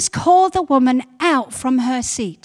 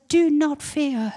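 the Lord's reassurance; 3 dB quieter, slower than usual. Retold or imitated. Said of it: "the Lord says".

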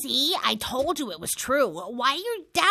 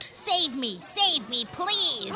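mock plea, higher on please; imitated cry for help; 5 semitones higher, much slower than usual. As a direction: act out a drowning victim's plea. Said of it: "So he cried out".

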